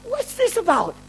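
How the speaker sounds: exasperated, high-pitched complaint; retold anger. Tired minister complaining to God, retold exasperated anger. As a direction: protest in comic disbelief. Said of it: "I get really angry".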